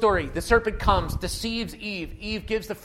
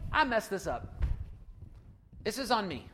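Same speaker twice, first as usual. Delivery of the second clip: owning up; 7 dB quieter than usual. Acted. Models owning the blame.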